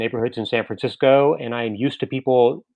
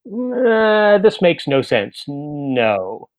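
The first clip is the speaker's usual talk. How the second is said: flat, unimpressed rejection; dismissive; much slower than usual. Retold or imitated. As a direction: read the invitation and dismiss it. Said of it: "I'll read it and I'll say".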